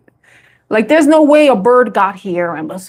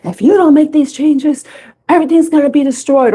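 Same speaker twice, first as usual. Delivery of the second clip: mock doom preacher; 3 semitones higher than usual. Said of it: "Why you have to make it so scary".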